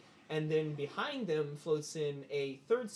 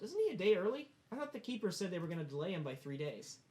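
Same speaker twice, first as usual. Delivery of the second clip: Percival; 5 semitones higher than usual. Acted. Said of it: "and Percival goes".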